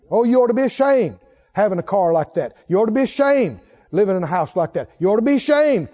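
mock shaming. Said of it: "Try to shame us".

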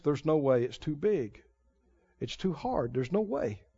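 low, soft voice of fear. Retold or imitated. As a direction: let fear speak small and defeated. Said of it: "Fear always says".

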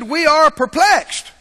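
drawn out, weighty; solemn verse read slowly; slow scripture reading. Acted. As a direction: lean into each word slowly.

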